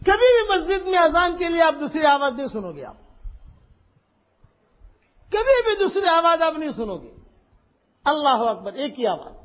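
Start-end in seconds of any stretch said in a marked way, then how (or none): 0.1-7.0 preaching shout. Real, not acted. Preacher stresses the single call.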